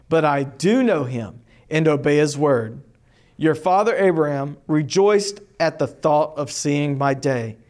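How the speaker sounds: steady, measured Bible reading to a class; teacher reading the Gospel aloud to the class; scripture reading. Acted. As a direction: read the passage clearly for students to follow. Teacher reads scripture passage aloud.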